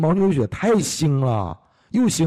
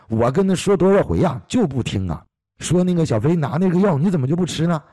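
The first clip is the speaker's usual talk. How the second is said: exasperated complaint; 5 semitones higher than usual. Retold or imitated. Sister complains uncle won't listen.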